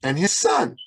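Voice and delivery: lightly voiced mother, starting high-pitched; imitating a mother. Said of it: "And I said".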